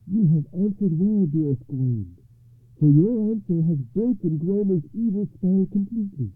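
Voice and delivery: high, loud, triumphant; exultant noblewoman's ringing declaration; joyful lady. A narrator's reading. Lady rejoices at broken spell.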